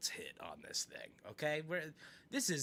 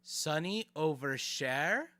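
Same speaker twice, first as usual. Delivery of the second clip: incredulous; 3 semitones higher than usual. Real, not acted. Streamer repeating a viewer's opinion, incredulous. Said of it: "I just can't comprehend it".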